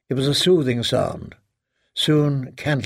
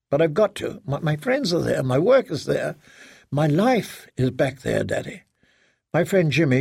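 lightly voiced daughter, pleading her case; anxious daughter. Daughter explaining to her father why she must return, anxious.

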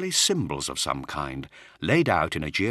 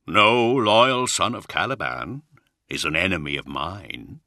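cool; 2 semitones higher, 4 dB louder than usual. Acted. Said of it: "he answered coolly".

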